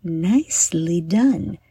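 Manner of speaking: measured guided-meditation delivery with long pauses; guided breathing. Acted. Host leading young listeners through heart diamond breathing, guided meditation. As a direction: talk listeners gently through each breath, leaving room to breathe.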